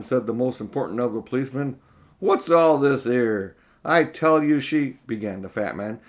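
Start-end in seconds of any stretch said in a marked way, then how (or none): 2.2-5.0 slow official bobby. Acted. Policeman; fat man.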